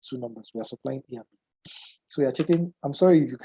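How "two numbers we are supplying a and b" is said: congested, muffled voice from a cold. Real, not acted. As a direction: speak with a blocked nose. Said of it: "if my voice is a little bit muffled".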